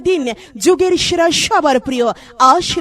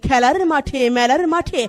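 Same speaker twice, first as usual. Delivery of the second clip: chipper 1950s ad. Acted. Mic promo read.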